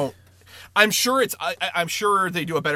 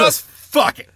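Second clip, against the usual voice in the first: mock careless shout; 9 semitones higher, 8 dB louder, much slower than usual. Mocking the banks' attitude.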